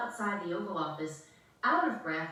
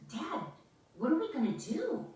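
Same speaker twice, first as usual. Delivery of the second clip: worried; 6 semitones higher than usual. Acted. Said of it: "America was worried".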